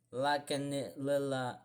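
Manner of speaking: Laganilla sounded out slowly and softly; unsure pronunciation. Real, not acted. Tackling a very Scottish place name, hesitant sounding-out of Laganilla. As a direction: feel your way slowly through "Laganilla". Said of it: "how do you say this?".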